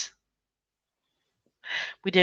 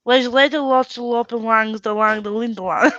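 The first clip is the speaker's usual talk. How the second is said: laughing; 2 semitones higher than usual. Real, not acted. Trying Dutch names, laughing.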